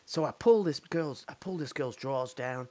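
hillbilly recoiling at the smell, rising to a yell; hillbilly impression. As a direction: build to a shocked yell. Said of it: "he was like".

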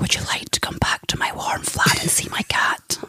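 whispered mock chat-up line; soft, voiceless invitation; whispering. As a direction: imitate a very quiet date, all breath. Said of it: "Don't whisper like that".

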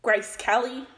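playful. Real, not acted. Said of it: "No, just Kelly".

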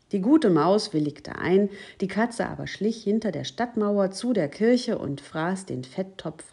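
lebhaft betontes Vorlesen für ein Kind; Märchenlesung. A narrator's reading. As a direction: read a fairy tale aloud with gently acted dialogue. Liest ein Märchen vor. (lebendig erzähltes Märchen)

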